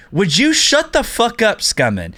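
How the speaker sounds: fed up with a whining teammate; annoyed snap. Retold or imitated. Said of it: "And then Rated's like".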